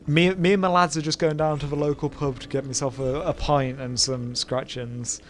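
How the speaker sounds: put-on light British accent, slowing right down on the ending; mock British accent. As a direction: ham up a British bloke ordering at the pub. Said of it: "Does he even just the word lads".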